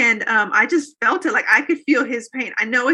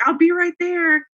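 higher, slow, sing-song call to the next room; 7 semitones higher, 3 dB louder, slower than usual. Retold or imitated. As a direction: stretch it out, calling to someone in the shower. Calling back to husband in shower.

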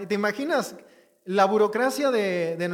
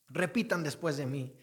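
solemne; 5 semitones lower, 6 dB quieter than usual. Pretend. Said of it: "así todo solemne".

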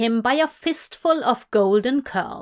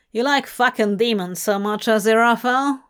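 snarling; 4 dB louder, faster than usual. Acted. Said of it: "Gabriel snarled".

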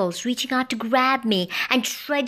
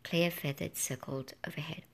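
ordinary delivery, nothing marked

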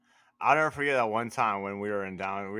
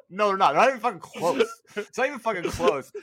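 emphatic; 8 semitones higher, 6 dB louder than usual. Real, not acted. Insisting friends aren't crazy.

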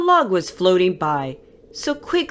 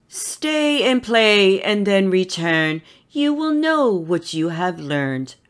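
gently. Acted. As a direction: soothe the little ones kindly. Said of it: "answered gently".

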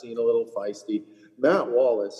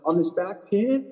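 higher, incredulous rant; exasperated inner rant; 9 semitones higher than usual. Retold or imitated. Retelling his inner disbelief at the golfer's whining. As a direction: sound fed up with his complaining. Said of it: "and I'm like".

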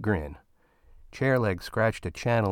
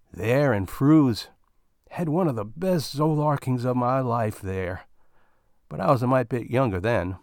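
put-on reminiscing old miner; 3 semitones higher than usual. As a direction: linger on the memory. Bill reminiscing.

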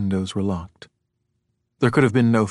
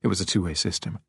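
ordinary delivery

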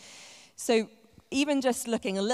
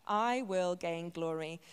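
slow solemn; 3 dB quieter, slower than usual. Acted. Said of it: "God is saying".

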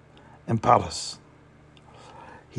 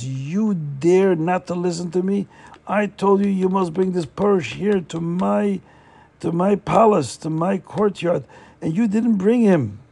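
a mild mock rage, pitched up and pushed; angry rage; 4 semitones higher than usual. Poritz scolds the servant who failed him, mildly raging. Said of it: "he flew into an anger, a rage".

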